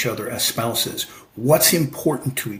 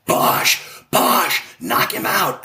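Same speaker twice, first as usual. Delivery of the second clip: mock cheering scream; 5 semitones higher, much slower than usual. Wife ringside cheering her husband's name, mild mock scream. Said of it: "she's screaming".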